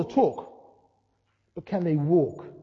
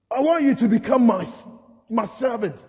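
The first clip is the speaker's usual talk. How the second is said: commanding Lord; 4 semitones higher than usual. Acted. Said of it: "and the Lord goes".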